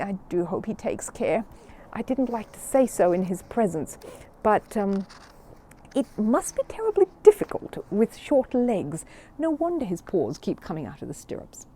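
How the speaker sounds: nervous. Acted. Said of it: "said Missus Brown nervously".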